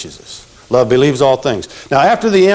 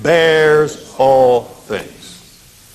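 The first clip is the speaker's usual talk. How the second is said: very slow, every word drawn out for the class; slow recitation; much slower than usual. Shown as a demonstration. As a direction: chant it slowly so they can repeat. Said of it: "Who's the terrible singer".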